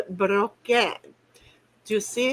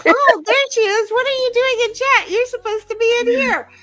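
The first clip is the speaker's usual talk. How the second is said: mock surprised greeting; 11 semitones higher, 6 dB louder than usual. Mock greeting of friend in chat.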